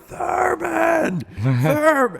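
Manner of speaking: crowd yelling name. Retold or imitated. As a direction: bellow it like thirty campers calling. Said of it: "We're like".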